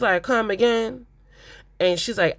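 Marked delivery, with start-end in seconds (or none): 0.2-1.1 higher, taken-aback retold question; mildly voiced disbelief. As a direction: imitate her being thrown by the news.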